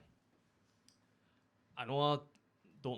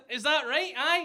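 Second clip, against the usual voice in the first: higher, louder, eager reply; acted relief; 11 semitones higher, 8 dB louder than usual. Comic to American bar lady, hammed-up relieved burst. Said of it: "And I was relieved".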